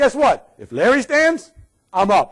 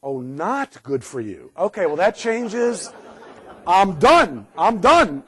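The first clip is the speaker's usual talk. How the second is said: mock sarcastic surprise; slower than usual. Mock reader of a smoking poster.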